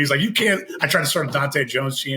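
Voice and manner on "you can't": higher-pitched mock yell; playful retold yelling. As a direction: raise the pitch in mild, retold protest. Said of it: "he just kept yelling at me".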